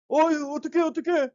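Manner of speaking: high-pitched mock panic; fretting in alarm, pitched high; frightened. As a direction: act out a flustered, fearful cry. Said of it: "크게 두려워하며".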